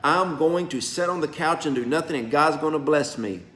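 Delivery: mock the couch-sitters who wait on God; mock lazy believer. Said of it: "Ignorant people believe, like".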